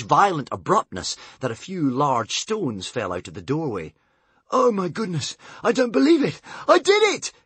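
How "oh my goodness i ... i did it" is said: rising higher and louder in disbelief; can't believe his own luck; astonished gasp. A narrator's reading. Tsar amazed he killed the witch, building astonished shout. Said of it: "gasped Tsar in astonishment".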